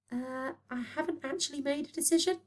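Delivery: meekly chip in; piped up. Acted. Headmaster to Boyle, timidly piping up. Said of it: "Call Me Graham piped up".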